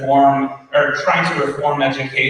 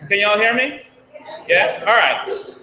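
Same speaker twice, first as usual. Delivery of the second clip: projecting higher, without the mic; teacher voice; 7 semitones higher than usual. Real, not acted. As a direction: raise the pitch and carry to the room. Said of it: "Could I use my teacher voice".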